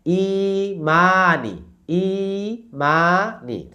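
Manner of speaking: slow ইমানি with long ই and মা, short নি; two stretches. Shown as a demonstration. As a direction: sustain ই and মা, then a quick নি. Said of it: "ইতে টান".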